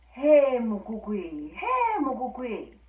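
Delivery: calling out. Acted. Fox calls up to the rooster on the stack, loud call. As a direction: hail him from below, half-sung call.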